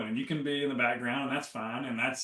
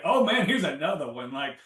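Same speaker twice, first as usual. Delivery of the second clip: a lively, louder, eager voice; eager excitement; 3 semitones higher, 4 dB louder than usual. Retold or imitated. Retelling how she greets a trigger now, eagerly. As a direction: greet the next trigger like an adventure. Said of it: "now I get excited for".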